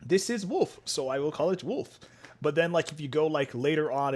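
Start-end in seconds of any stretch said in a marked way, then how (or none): 0.0-2.0 lightly voiced plain-thinking namer, higher at first; mock a matter-of-fact discovery; simple-minded namer. Early namer labelling an animal, lightly mocked simplicity. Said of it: "went for the most basic ones".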